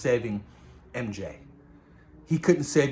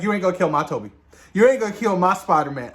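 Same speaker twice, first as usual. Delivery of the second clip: protective outburst, building louder; acted protest; 4 semitones higher, 4 dB louder, faster than usual. Fan defending Tobey at the screen, in mock outrage. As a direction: replay an indignant yell at the screen.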